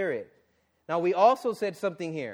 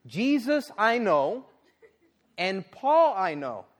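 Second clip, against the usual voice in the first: slow, taunting demon voice with a laugh; mocking demon; 5 semitones higher, 5 dB louder, slower than usual. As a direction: sneer it out like an amused evil spirit. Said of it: "the evil spirit answered and said".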